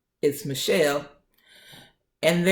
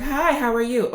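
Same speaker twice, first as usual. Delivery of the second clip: higher-pitched imitated greeting with attitude; nurse with attitude; 6 semitones higher than usual. Nurse greeting the patient, with attitude. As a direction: greet them with put-on attitude. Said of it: "everything was attitude".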